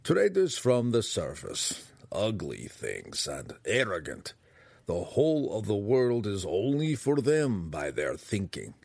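slow, scornful gnome, ringing out; resonant gnome voice. Acted. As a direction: let a distinct gnome voice resound with disdain. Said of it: "The resonant voice rang out a bit more loudly".

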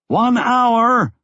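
calling out. A narrator's reading. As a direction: call out over the noise. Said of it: "Lobsang called".

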